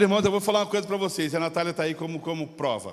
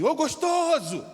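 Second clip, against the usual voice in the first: retold catcall; 7 semitones higher, slower than usual. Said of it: "ele gritou assim".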